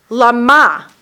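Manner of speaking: "Lama" as lə-MA, weight on the last syllable; "Lama" with the final syllable stressed; Hebrew lama, stress on the end. Shown as a demonstration. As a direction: say "Lama" with the accent on MA. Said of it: "it's not lama".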